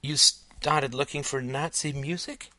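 put-on high, slow little-girl question; puzzled young daughter's voice; child character. A narrator's reading. Young Alice misunderstands her father.

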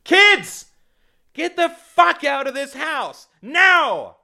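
very high, furious shriek; screamed order. A narrator's reading. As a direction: scream them out of the house. Mother screams children out of house.

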